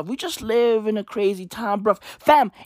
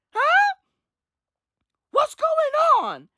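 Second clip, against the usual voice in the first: much higher, slow stunned question; shocked; slower than usual. Real, not acted. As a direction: ask in stunned disbelief. Shocked at death toll.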